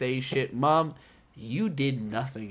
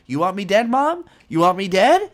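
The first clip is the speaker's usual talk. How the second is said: much higher, loud yelling rant; furious son; 6 semitones higher, 10 dB louder than usual. Retold or imitated. Amuro yelling at his mother, loud and high. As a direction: scream it back at her. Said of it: "Amuro's like".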